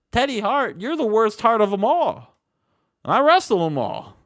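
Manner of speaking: mock Triple H taunt. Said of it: "And Triple H is like".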